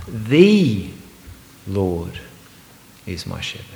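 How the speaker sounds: "The" and "Lord" set apart by pauses, "Lord" held alone; "Lord" isolated between pauses; stress on LORD. Shown as a demonstration. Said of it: "I'm gonna emphasise just one at a time".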